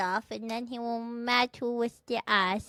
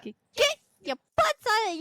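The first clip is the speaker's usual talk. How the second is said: pushy demand; 9 semitones higher, 5 dB louder, faster than usual. Pretend. Pushy pitch to strangers.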